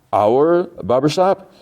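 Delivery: high, slow disbelieving question; incredulous question. Retold or imitated. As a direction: draw it out, rising in mock disbelief. Retold doctor questions barber in disbelief.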